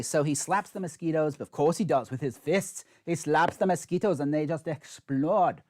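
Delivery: a hint of a bad German accent, narrated. Telling viewers how Hagris swats mosquitoes, in a light German accent. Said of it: "that was my very bad male German accent".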